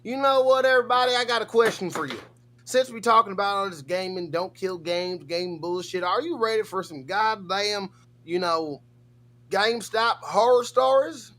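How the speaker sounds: high, loud hype host; hype announcer. Pretend. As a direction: pump up the chat like a host.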